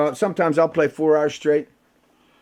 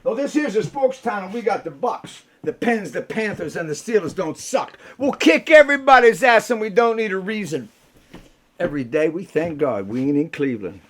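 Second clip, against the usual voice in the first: higher, louder hometown boast; rousing lyric; 4 semitones higher, 3 dB louder than usual. Shown as a demonstration. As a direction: belt it like a chant. Reciting his song lyrics.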